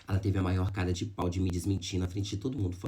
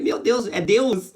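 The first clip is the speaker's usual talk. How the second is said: loud, slow, higher cry of amazement; astonished exclamation; 10 semitones higher, 9 dB louder, much slower than usual. Retold or imitated. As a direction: exclaim it in awe, stretching each word. Awe at being read by her. (exclamação espantada, alta e lenta)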